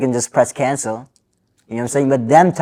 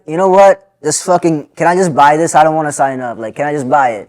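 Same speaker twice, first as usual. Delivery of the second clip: exasperated outburst; 2 semitones higher, 4 dB louder than usual. Retold or imitated. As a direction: blurt it out, fed up with the cashier. Frustrated rant at cashier.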